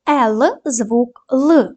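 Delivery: Л drawn out clearly, very slow; slow sound demo. Shown as a demonstration. Teacher models the sound Л for pupils. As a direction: sound out the letter Л slowly. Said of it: "дамо характеристику кожному звуку".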